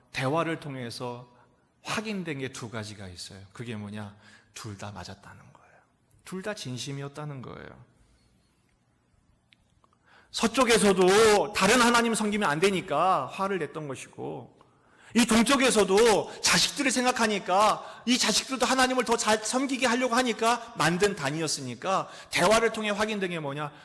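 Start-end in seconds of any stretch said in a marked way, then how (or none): 4.5-5.8 hushed reveal. Acted. Pastor whispering the key finding to the congregation. 10.3-23.7 loud, high impassioned preaching; full-force preaching. Acted. Pastor preaching loudly to the congregation.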